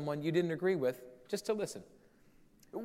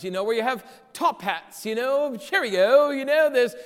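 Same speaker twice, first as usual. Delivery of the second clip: mock posh Old English accent, louder; 2 semitones higher, 5 dB louder than usual. Pastor lampooning old English manners in a mock posh English accent. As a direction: ham up a posh English gent. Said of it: "I don't know where that accent came from".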